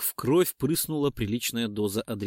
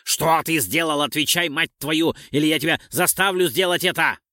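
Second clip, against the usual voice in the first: angry threat with raised voice; louder, pressing; 4 semitones higher, 4 dB louder than usual. A narrator's reading. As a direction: bear down on them for an answer. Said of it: "ещё громче произнёс, напирая". (сердито, громко, с напором)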